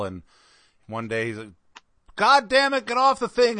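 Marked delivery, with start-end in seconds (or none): 2.2-3.6 high, loud mock fatherly tirade; hammed-up angry dad shout; yelling dad. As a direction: holler orders like an exasperated dad. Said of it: "how his dad would yell".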